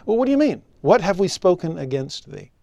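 high, loud indignant protest; mock indignant objection. Teacher voicing the people protesting to the Lord, mock indignant. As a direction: play them as offended objectors.

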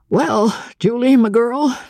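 high-pitched, gentle captain's voice; kindly. Acted. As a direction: start kindly, in a high character voice. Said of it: "began Andy Hawks kindly".

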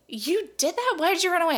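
mildly mock a baffled husband; imitated disbelief. Voices husband's disbelieving question.

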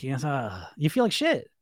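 ordinary delivery

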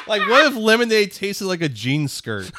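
laughing through the joke; high giggly delivery. Real, not acted. Joking about switchel, laughing.

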